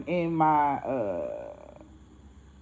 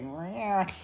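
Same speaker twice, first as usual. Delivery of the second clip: drawn-out mock cat yowl; imitated cat yowl; 7 dB quieter than usual. Teller imitating the bagged cat, angry yowl. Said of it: "the cat".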